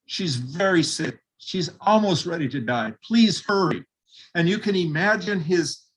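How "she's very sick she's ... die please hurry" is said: pleading. Retold or imitated. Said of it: "pled with him".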